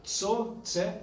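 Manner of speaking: "Tso, tse" with a ts onset; name the letter clearly as "Tso, tse"; letter sound demo. Shown as a demonstration. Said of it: "aprenderam duas letras a pronunciar".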